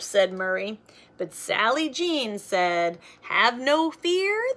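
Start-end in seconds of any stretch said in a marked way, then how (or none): 3.2-4.5 1 proud proclamation. Acted. Sally Jean proclaims.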